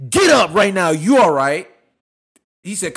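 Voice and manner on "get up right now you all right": dad yelling. Retold or imitated. Dad voiced in story.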